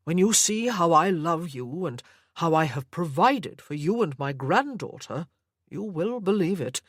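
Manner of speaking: a hint of a doting, controlling grandfather; obsessive old grandfather. Sir Lovett speaks to Anna.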